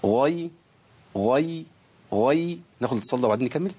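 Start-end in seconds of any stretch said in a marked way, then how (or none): 0.0-2.6 غي with slight rounding and a small smile; light lip rounding. Shown as a demonstration. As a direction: drill غي with a tiny lip push. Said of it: "تبويزة بسيطة قوي وابتسامة بسيطة".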